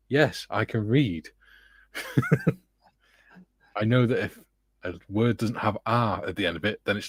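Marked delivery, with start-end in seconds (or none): 0.1-1.3 dry retort. Retold or imitated. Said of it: "I'm like".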